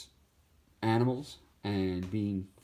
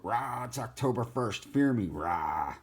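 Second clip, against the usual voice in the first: a hint of spooky growling bat; mock scary bat. Cartoon bat greeting October, lightly spooky growl. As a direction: play a bat trying to scare. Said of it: "a big-eared bat".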